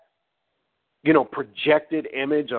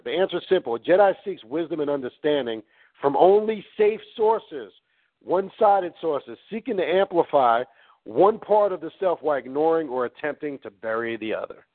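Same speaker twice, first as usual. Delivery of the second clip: measured, emphatic read from a text; reading aloud; 2 semitones higher than usual. Real, not acted. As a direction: read the passage out deliberately, phrase by phrase. Reads book aloud.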